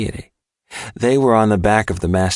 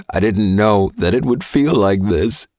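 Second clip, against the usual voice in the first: a raised, anguished cry. A narrator's reading. Man overwhelmed inside the merging, crying out. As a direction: let it burst out of him in pain. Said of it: "he cried".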